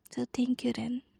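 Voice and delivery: soft proud whisper; whispering pride to her husband. Real, not acted. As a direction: breathe it, tenderly. Tender whisper.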